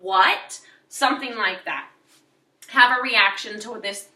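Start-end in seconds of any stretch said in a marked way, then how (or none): 0.0-0.6 sharp startled "what?"; a quick shocked question; surprised. Shown as a demonstration. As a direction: snap out disbelief. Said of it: "or like".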